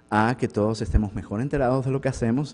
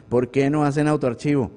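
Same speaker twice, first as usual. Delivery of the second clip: mild retold scolding; 4 semitones higher, 3 dB louder than usual. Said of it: "yo sí los regañaba bastante".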